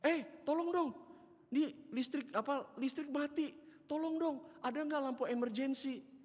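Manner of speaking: high, loud pleading; mock shouting. Oma begs neighbour for an emergency lamp, hammed-up high plea. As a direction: plead noisily as a flustered old woman. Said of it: "Dia teriak-teriak".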